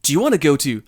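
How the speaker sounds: stilted textbook question, "beach" leaping high and loud; high-pitched BEACH. Acted. Recording asking Taku out, absurdly high "beach". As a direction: exaggerate the rise on "beach". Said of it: "the beach was so high".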